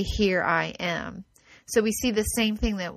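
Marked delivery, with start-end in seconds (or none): 0.0-1.2 low, soft, slow reassurance; God gently answering the one who cries; gentle divine answer. Acted. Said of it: "he will say".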